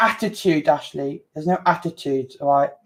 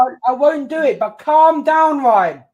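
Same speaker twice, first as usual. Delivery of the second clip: exasperated appeal; 5 semitones higher, 4 dB louder than usual. Real, not acted. Co-host tells Ryan to calm down, exasperated appeal. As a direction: insist over the other person, exasperated.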